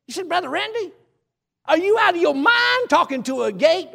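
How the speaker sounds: high-pitched mock disbelief; incredulous doubter. Imagined listener scoffing at the preacher, high incredulous voice. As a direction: play the scoffer who thinks he's crazy.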